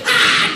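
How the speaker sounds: a short, loud mock scream like a child expecting a beating; imitated child's scream. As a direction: yelp out an "Ah!" before the blow lands. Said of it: "Gritábamos".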